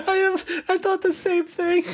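high, eager voice; bursting with agreement; excited agreement. Real, not acted. Agreeing with her co-host, high and excited.

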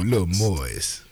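slow, stretched little moist; drawn-out moist. Retold or imitated. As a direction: linger on the word like she did. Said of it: "quoting the lady".

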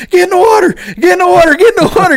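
high loud repeated commands; frantic orders. Retold or imitated. Angler ordering his buddy into the pond, high urgent shouts. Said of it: "I'm like".

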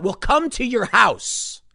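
slow mock-sinister protester threat. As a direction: deliver a sinister threat, drawn out. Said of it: "protesters' imagined reply".

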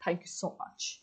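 a breathless whispered thanks. Real, not acted. Swooning over a fictional man, whispered thanks. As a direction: barely breathe it out. Breathless aside after "I died.

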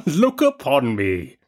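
slow, grand spirit voice; slow and commanding, otherworldly; echoing ethereal energy being. A narrator's reading. Ghost commands Scrooge.

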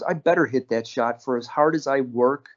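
lightly imitated matter-of-fact athlete; deadpan. Bird answering a reporter after his game winner, deadpan. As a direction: retell it evenly, with no fuss. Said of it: "Bird looks at him deadpan".

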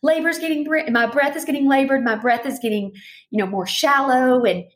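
pitched well up, breath getting short and shallow; a rising, anxious voice while describing a panic. Shown as a demonstration. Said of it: "the pitch of my voice is going up".

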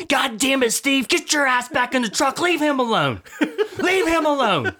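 mock shrill scolding old woman, laughing; cussing old lady. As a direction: squawk at him like an angry old lady.

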